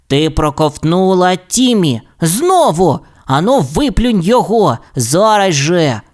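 mildly cross, emphatic demand; indignant scolding. Acted. Rasmus scolds grandma for swallowing Timmy.

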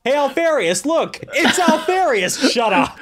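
fake-thrilled jeer at an impostor; sarcastic mockery. Legionnaires jeering at the latest Alfarius, high laughing sarcasm. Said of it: "they're like".

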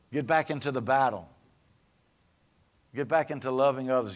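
steady sermon cadence; preaching. Acted. Pastor exhorts his church, steady preaching voice. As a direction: preach it to the pews, measured.

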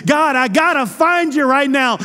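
urgent cry. Acted. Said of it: "Notice he says".

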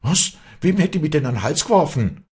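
high, loud startled question; shocked stammer. A narrator's reading. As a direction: ask aghast, pitch jumping. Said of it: "stammelte das Mädchen erbleichend".

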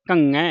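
ਘੰਗੈ with "ng" sounded in the nose; nasal ਘੰਗੈ. Shown as a demonstration. Teacher demonstrating pronunciation, nasal ਘੰਗੈ. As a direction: send the middle of ਘੰਗੈ through the nose. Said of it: "ਇਹ ਵੀ ਨੱਕ ਦੇ ਵਿੱਚ".

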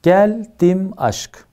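"Geldim aşk" drawn out slowly, each syllable separated; slow syllable reading. Shown as a demonstration. Teacher slowing down to show students the syllables of "Geldim aşk". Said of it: "Bakın şimdi".

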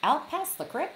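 put-on high-pitched Texas rancher accent. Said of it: "he said it more like".

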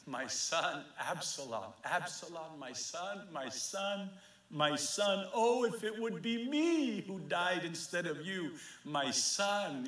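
soft, grieving father's cry, understated; mild tearful lament. Retold or imitated. David mourning his son Absalom, softly grieving. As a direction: let the grief hush the words, not sob them. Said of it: "cries and cries".

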